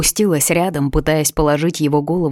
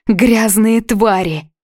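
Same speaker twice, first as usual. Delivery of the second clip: slow, higher and louder hateful outburst; hateful hiss; 5 semitones higher, 5 dB louder, slower than usual. A narrator's reading. Captive girl cursing her kidnappers, slow hateful cry. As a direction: spit the insult with hatred. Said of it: "ненавистно зашипела я".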